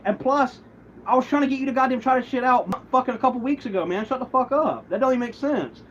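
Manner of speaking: snapping back at the accusation, voice up high; heated retort. Retold or imitated.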